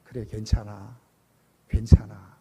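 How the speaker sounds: low, gentle reassurance; reassuring. Retold or imitated. God to a child instead of scolding, low reassuring voice. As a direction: voice a kindly, accepting father. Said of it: "이렇게 말씀해 주시는 분이".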